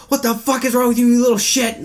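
high-pitched, exasperated imitated scolding; mock angry dad. Dad yelling at his son in the car, mock anger.

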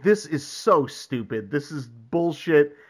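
slow, emphatic mock exasperation; retold grumbling. Podcaster retells the hero grumbling about his errand, exasperated. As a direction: spell out the disgust slowly, as a retelling.

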